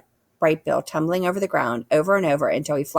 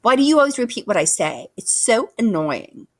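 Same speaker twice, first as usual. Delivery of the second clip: annoyed; 5 semitones higher, 3 dB louder than usual. A narrator's reading. Sister bear scolds brother.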